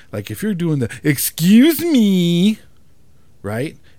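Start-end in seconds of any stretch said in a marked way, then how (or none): 1.0-2.5 snippy, rude, very loud, stretched-out "me". Explaining how to ask someone blocking your way to let you through, sounding like a jerk. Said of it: "in a tone that doesn't make you sound like a fucking jerk".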